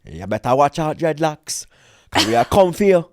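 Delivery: lightly mimicked meme catchphrase; Chris Eubank. Quoting a meme to the co-host, Chris Eubank impression. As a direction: do a mock warning from the meme. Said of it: "that meme of, uh, Chris Eubank".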